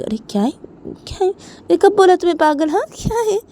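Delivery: exasperated retort rising high and loud; irritated father. Acted. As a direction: protest the accusation, voice climbing. (झुंझलाकर जवाब देते पापा)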